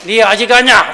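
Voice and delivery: mock harsh voice of an older member; rough old voice. Shown as a demonstration. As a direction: rasp it out like a gruff elder. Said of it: "목이 껄껄한데".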